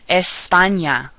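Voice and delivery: slow Spanish "España", as "es-PAH-nya". Shown as a demonstration. Teacher giving words to practice, NY sound in "España". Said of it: "Ñ sounds like ña".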